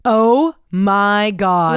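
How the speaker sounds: gasping oh my God, slow; real shock at a creepy photo. Real, not acted.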